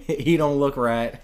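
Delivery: slow, deliberately dumb phrasing; dumb folksy voice. Pretend. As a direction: play it like a simple yokel. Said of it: "what do you want me to say".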